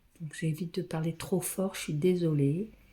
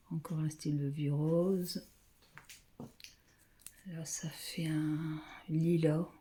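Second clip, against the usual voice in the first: whisper. Real, not acted. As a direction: whisper as if not to wake anyone. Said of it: "je parle pas fort".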